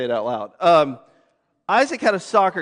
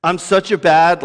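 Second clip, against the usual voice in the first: self-scolding; 2 semitones lower, 4 dB louder than usual. Retold or imitated. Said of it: "It may be something like".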